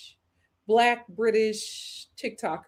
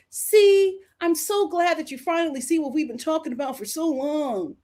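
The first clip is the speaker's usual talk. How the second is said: mocking commenters; 6 semitones higher than usual. Mocks commenters thanking the man.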